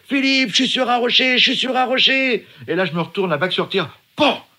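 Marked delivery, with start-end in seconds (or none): 0.1-2.5 calling out. Retold or imitated. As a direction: shout the news across the waves. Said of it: "j'entends Jacques qui crie".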